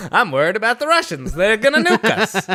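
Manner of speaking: hammed-up cold war fear; mock paranoia. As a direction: fake fret over the Russians. Mock paranoid forties host.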